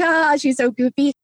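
high, light mock amusement; imitated laughing onlookers. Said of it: "we all laughed, like".

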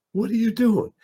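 high, stern champ; Ali impression. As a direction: ask it high and sharp. Ali stops entourage.

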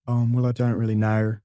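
hesitant mock Australian mumble; lightly voiced Australian, unsure; imitated Australian reply. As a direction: fumble for an answer in put-on Australian. Plays the actor's hesitant Australian reply.

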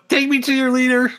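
alien voice. Pretend. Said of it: "It's all like robot now".

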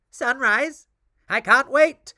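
high, loud eager cry; excited cry. Acted. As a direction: cry out with impatient joy. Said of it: "the witch cried out".

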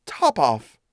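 understated, cool cat answer. Acted. Cat naming the godchild, coolly. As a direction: give the name coolly, without any fuss. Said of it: "said the cat quite coolly".

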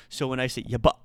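yaba cut off sharply with a glottal stop at the end; glottal stop demo. Shown as a demonstration. Teacher shows students yaba ending in a hard glottal stop. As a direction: stop the breath hard right after yaba. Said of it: "forcibly stop myself there at the end".

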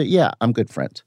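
offhand, breezy brag; casual fake claim. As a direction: toss it off like a hollow boast. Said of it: "you say".

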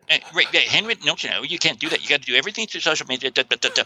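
quick, dismissive parroting; mocking naysayers. Host parodies social media believers to the guest, mockingly. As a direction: rattle it off as a mock know-it-all. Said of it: "because people sit there".

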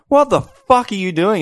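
put-on high, slow shocked yell at a kid in the road; mock yell. Schoolkids yell at a classmate walking onto the road, shocked and slow. Kids yelling at child on road.

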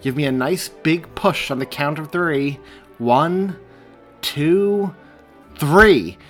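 rally her to push on three; coaching count. A narrator's reading. Andrew counting Mary's push, building.

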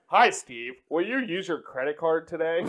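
put-on lightly done American accent of an Australian server; an Australian server faking an American accent, only slightly; fake American accent. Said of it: "my impression of a fucking Australia doing an impression of an American".

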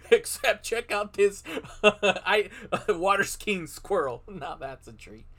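newscaster. Acted. Mock newscaster bit.

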